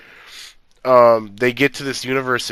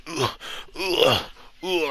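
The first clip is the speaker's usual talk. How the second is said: mock panting; 6 semitones higher, 6 dB quieter, slower than usual. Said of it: "he's, like, out of breath".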